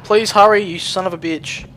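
high frantic shout at the screen; frantic yelling. Real, not acted. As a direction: yell impatiently. Urging a slow game character.

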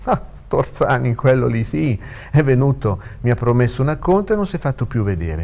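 put-on young lawyer airing a grievance; young lawyer complaining. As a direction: complain as you piece the case together.

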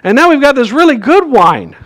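mock scolding. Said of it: "he scolds him".

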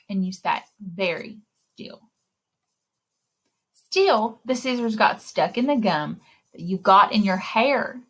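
put-on lively read-aloud for little kids; story reading. A narrator's reading. Librarian reading a picture book to children. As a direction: read the rhymes like story time.

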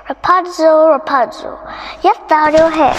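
calling up. A narrator's reading. Witch calls like Rapunzel.

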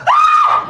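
very high, loud shriek; dog's shriek. Retold or imitated. Dog sees the goth woman and shrieks, very high and loud. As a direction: scream like a terrified dog. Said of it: "My dog goes".

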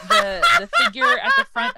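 high, loud and fast through laughter; laughing. Real, not acted. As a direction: laugh while explaining. Laughing explanation.

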